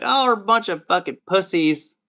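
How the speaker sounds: mom yelling at football. Retold or imitated. Christian mom yelling at the football game on TV, high loud mock yell. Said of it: "I could see your mom being like".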